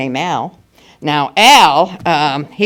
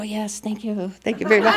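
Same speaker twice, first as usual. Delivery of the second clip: mock star thanks; 4 semitones higher, 6 dB quieter than usual. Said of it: "we'd go".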